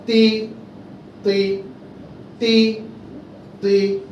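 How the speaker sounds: তি said crisply over and over for the class; repeated syllable drill. Shown as a demonstration. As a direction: drill তি slowly for students to echo. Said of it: "তখন আমি Z দিয়ে দিব". (তি বারবার স্পষ্ট উচ্চারণ)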